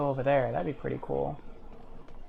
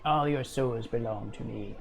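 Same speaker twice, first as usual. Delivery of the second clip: low menacing fiend voice; gloating demon boast; deep gravelly pit fiend; 5 semitones lower than usual. Acted. Villain boast after kill.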